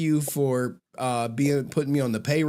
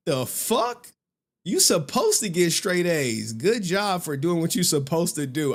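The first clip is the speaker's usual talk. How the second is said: indignant grandpa; 6 semitones higher than usual. Retold or imitated. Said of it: "He was like".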